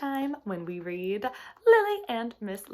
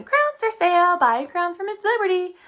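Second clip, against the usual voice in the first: much louder, higher street cry; yelling; 9 semitones higher, 10 dB louder than usual. Acted. Rachel yelling to passersby, loud and high. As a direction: bellow it down the street. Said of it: "began yelling".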